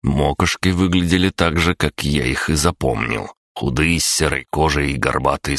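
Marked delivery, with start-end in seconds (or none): none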